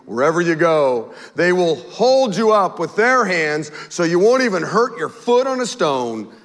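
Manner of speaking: slow, measured Bible reading; unhurried reading of a psalm to the congregation; scripture reading. Acted. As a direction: read the psalm out with solemn weight. Reads Psalm 91 aloud.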